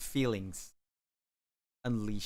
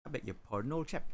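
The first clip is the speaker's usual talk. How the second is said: put-on lightly done posh British accent, old chap; a hint of a plummy British accent; mock posh British; 3 semitones higher, 4 dB quieter, faster than usual. Answering chat's request in a light posh British accent. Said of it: "In an angry style".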